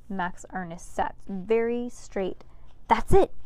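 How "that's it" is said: excited. A narrator's reading. Max Ernest's sudden realization.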